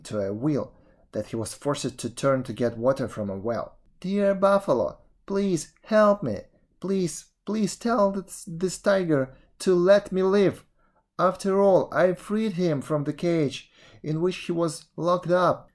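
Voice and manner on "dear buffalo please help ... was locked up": pleading Brahmin. Acted. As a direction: plead for your life.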